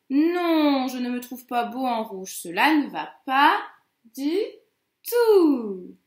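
«Non» fort, protestation du loup légèrement jouée; loup mécontent. Acted. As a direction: protester en détachant «du» et «tout». Teacher repeats the wolf's protest. (loup contrarié qui insiste)

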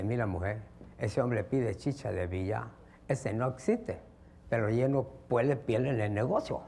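low, lightly put-on Chinese accent; hint of a Chinese shopkeeper's accent; mock Chinese accent. Shopkeeper confides in his wife about the odd order, mock Chinese accent. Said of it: "una tienda muy especial de chinos".

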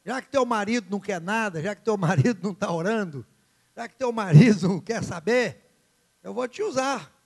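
God scolding the idle husband, rising; building rebuke. Acted. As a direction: stack the complaints and push harder.

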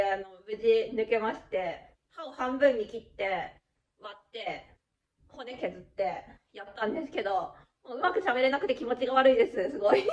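slurred from numb mouth. Real, not acted. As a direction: talk through a numb mouth.

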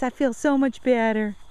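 light high-pitched dog voice; lightly voiced dog telling mom she's better; voicing the dog. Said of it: "She says".

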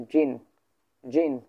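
জিন held like a straight line; first tone on জিন. Shown as a demonstration. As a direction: stretch জিন evenly, teacher's demo. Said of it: "সরলরেখার মতো করে যাবে".

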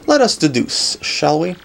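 lightly voiced self-important sleuth; pompous detective. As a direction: lecture like a grand detective, mildly exasperated. Voices Pennington, game character.

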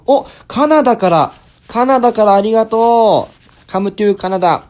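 high, loud excited thanks; light up at the news; delighted shout-out. Real, not acted. Excited thanks to Canadian viewer.

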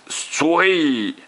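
high short command; ordering. A narrator's reading. Roman orders Gisèle to smile, high command. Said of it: "lui ordonna Roman".

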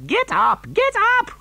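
high, whooping cry; roaring with laughter. A narrator's reading. Wonka to fallen passengers, hooting with laughter. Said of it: "roaring with laughter".

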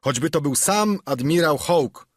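furious about an unpaid bill; shouting. Acted. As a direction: Silver yelling after the runaway. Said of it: "krzyczał Silver".

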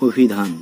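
অভিধান as "o-bhidhan"; closed initial o. Shown as a demonstration. Teacher gives an example, অভিধান with closed o. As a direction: start অভিধান on a rounded o. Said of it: "সেটি সংবৃত উচ্চারণ হয়".

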